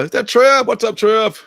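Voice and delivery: put-on high, loud old-timer calling out; old man act. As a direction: play an old man greeting someone he can barely make out. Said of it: "totally acting like the old man".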